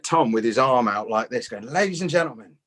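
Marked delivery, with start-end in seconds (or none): 1.7-2.6 imitating a compere's raised, showy build-up; mock compere announcement. Club compere to the crowd, hammed-up announcer voice.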